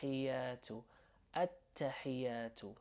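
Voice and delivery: hiyatu with an emphasized breath on the H; breathy H in hiyatu. Shown as a demonstration. Teacher showing learners the H sound in hiyatu, breathy and slow. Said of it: "emphasize that kind of breath sound".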